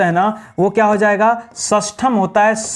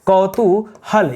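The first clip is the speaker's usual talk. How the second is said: slow spelled-out word; much slower than usual. Shown as a demonstration. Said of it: "पहले लिखते हैं कौ".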